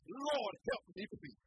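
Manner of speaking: earnest cry for help; crying out in prayer. Acted. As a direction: call on God, then drop to a near-whispered please. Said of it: "I'm gonna cry out to the Lord".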